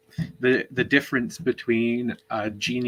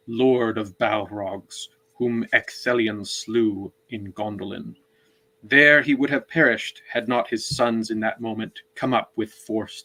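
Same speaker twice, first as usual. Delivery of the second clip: reading aloud. Shown as a demonstration. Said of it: "read a chunk of it".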